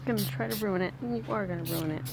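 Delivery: whispered tease; hushed playful accusation; whispering. Real, not acted. Teasing about the smiley face.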